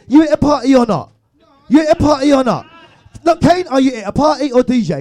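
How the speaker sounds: loud, high-pitched challenge; mock exasperation. Host challenging Kane about leaving the party, mock exasperation. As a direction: demand an answer with comic exasperation.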